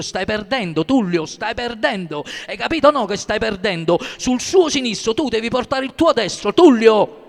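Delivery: building from urgent call to a loud shout on Tullio; a corner coach shouting urgent advice, rising to a full yell; shouting into his ear. Acted. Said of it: "mi gridò nell'orecchio".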